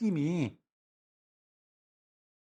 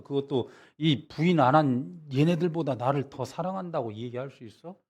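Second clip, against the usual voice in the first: irritated Jesus; 4 dB louder than usual. Pretend. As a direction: press him hard like a hurt teacher. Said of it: "제가 예수님이라면".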